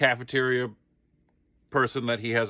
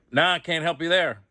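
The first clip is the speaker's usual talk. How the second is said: deadpan comic delivery; 6 semitones higher than usual. Acted. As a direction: sell the line as a joke. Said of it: "And I'm like".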